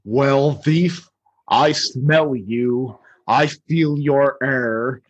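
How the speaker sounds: slow, menacing dragon; a light Smaug voice, very slow; Smaug's voice. Retold or imitated. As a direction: savor each word like a dragon toying with prey. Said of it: "talking in a deep voice".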